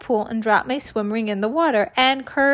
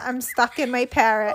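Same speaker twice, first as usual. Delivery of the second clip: fading panic; 2 semitones higher than usual. Retold or imitated. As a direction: let the alarm die down into a whimper. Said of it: "I panicked and shouted".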